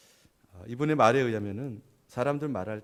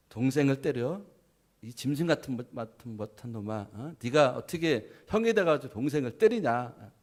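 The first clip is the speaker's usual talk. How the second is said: mock angry parent; 2 semitones higher, 4 dB louder than usual. Parent scolding the older son.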